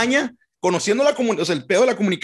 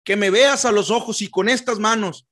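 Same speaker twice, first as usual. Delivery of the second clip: earnest candidate addressing voters; campaign speech voice. Pretend. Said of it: "lo voy a hacer acá".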